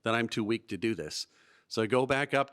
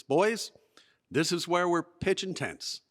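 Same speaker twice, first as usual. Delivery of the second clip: lightly voiced scoutmaster, pitched up; scoutmaster addressing troop; 5 semitones higher, slower than usual. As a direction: announce it to the boys in a higher voice. Scoutmaster announcing the campsite to boys.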